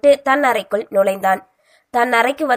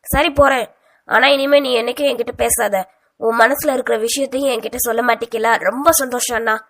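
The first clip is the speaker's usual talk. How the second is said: hurt and teary. Acted. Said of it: "கலங்கி கொண்டு கூறியவள்".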